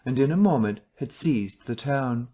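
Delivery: plain reading voice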